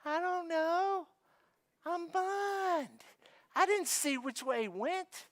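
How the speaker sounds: slow, high, deadpan reply; healed man dryly explaining he was blind. Retold or imitated. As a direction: state the obvious dryly. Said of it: "He's like".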